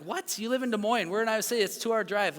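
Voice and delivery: high-pitched incredulous protest; retold disbelief. Dad to friends offering a long drive, acted disbelief. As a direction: protest in mock astonishment.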